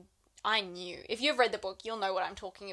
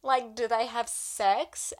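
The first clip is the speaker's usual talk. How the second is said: higher, louder brash demand; mock scoffing; 4 semitones higher, 6 dB louder than usual. Wife asking her husband about sex scenes, loud and brash. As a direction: push it out bold and scoffing, last line slow.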